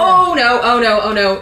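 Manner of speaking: panicked oh no. Real, not acted. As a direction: caught and panicking. Caught by enemy, panicking.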